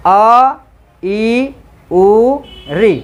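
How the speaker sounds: अ, ई, उ, री each said short and crisp; teacher says अ, ई, उ, री briefly for class to hear; short vowels demo. Shown as a demonstration. Teacher demonstrates short vowels to students, crisp and short. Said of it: "मैं उच्चारण कर रहा हूँ, ध्यान से सुनो".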